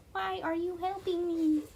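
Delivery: hushed story reading; whispered narration. A narrator's reading. Streamer whispering a tense story moment. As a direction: whisper it like a secret.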